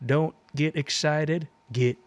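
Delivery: put-on Southern accent. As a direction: read it in a folksy Southern accent. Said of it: "we're gonna do a little Southern accent".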